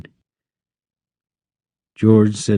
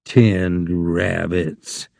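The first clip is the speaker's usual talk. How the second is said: low, slow, softer sneer; scornful; 4 semitones lower, 4 dB quieter, much slower than usual. Acted. Rabbit mocks Lenny's dream, slow low scorn. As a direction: drag it out with contempt, lower. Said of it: "it said scornfully".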